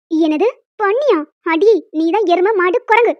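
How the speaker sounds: slow, indignant comeback; offended retort. Acted. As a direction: hurl the insult back. Grandma thinks she was called a pig.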